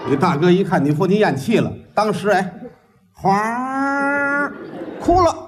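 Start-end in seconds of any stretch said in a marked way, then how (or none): 3.1-4.5 gushing crying sound. Retold or imitated. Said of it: "这是哭了吗？ 还哗儿？".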